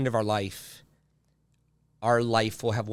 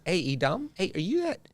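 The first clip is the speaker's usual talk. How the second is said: high, loud teasing jeer at a nickname; mocking taunt; 5 semitones higher, 6 dB louder than usual. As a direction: taunt him like schoolyard bullies.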